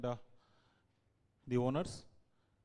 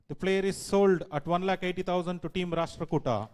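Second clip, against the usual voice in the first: loud; 2 semitones higher, 6 dB louder than usual. Acted. Auctioneer announces the sale.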